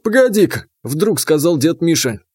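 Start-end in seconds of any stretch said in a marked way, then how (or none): 0.0-0.7 put-on higher, sudden call from an old man; old grandfather. A narrator's reading. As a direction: stop them short like a grandpa.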